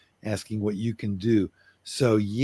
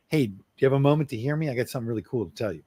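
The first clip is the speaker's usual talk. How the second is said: asking permission; 3 semitones higher, much faster than usual. Shown as a demonstration. To his partner, showing the right way: quick, gentle asking. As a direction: ask gently before you start. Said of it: "Always ask permission".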